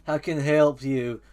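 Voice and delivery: lightly voiced fatherly wolf; slow down slightly into a wolf dad's counsel; wolf father figure. Movie wolf advising his pup, lightly voiced. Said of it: "the wolf's like".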